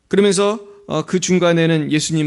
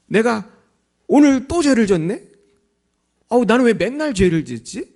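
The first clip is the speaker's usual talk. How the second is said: a lightly voiced believer, higher, mock-frustrated; sighing sinner; 7 semitones higher than usual. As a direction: sigh over your own sins, a bit higher. Believer's self-reproach voiced. (자책하는 신자 흉내, 조금 높게)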